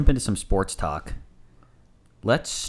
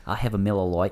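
put-on Australian accent; faster than usual. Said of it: "saying Miller Lite in an Australian accent".

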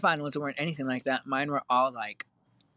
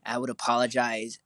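normal talking voice

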